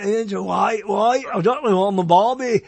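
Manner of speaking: Australian attempt sliding into British; failed Australian accent. Shown as a demonstration. Co-host who can't do Australian, accent turning British. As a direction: try Australian, drift into British. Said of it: "I always turn into a Brit".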